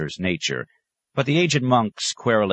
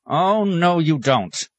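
sharp, loud angry retort, pitched high; old monk snapping loudly at the inventor; angry snap; 12 semitones higher, 5 dB louder, much slower than usual. A narrator's reading. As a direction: snap it out to shut the idea down. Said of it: "he snapped".

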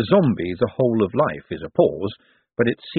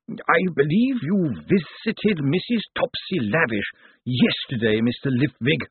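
lawyer Slant voice; 6 semitones higher than usual. Acted. The elderly zombie lawyer Slant speaks.

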